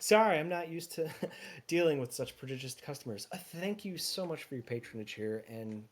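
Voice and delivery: lightly voiced, amused shopkeeper; gracious tea shopkeeper. Shopkeeper thanking prodigious customers, amused and gracious. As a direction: thank a big spender with a laugh in it. Game master plays the tea seller.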